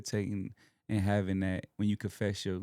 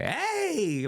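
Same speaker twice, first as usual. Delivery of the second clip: imitating pastor. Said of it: "he be like".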